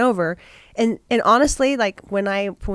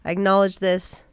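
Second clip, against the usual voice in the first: sincere apology; 3 semitones lower, 3 dB quieter than usual. Retold or imitated.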